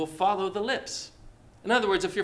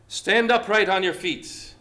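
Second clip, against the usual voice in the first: loud command; 3 semitones higher, 4 dB louder than usual. Acted. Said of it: "said in a loud voice".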